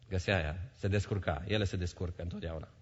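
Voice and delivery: usual speaking voice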